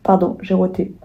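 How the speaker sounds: burp rising mid-word; talking while burping. Real, not acted. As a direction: apologize through a burp. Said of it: "Pardon, j'ai encore roté".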